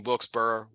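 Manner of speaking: WILKES-BARRE ending in BURR; alternate pronunciation. Shown as a demonstration. Host joking about tonight's pronunciations, variant pronunciation. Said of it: "doing a lot of pronunciation".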